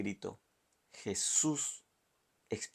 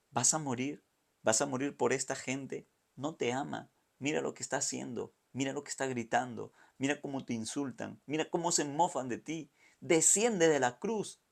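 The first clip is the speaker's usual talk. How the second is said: tempter's voice; 3 semitones higher than usual. Acted. The enemy taunts Jesus on the cross, lightly voiced tempter. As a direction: coax him down from the cross, mocking.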